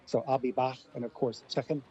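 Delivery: I'll be back and chicken with the final k softened toward sh; Scouse accent. Shown as a demonstration. A linguist demoing Liverpool English to the radio host, light Scouse accent. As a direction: demo the Liverpool k at word ends, lightly done. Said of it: "I liked that American Scouse accent there".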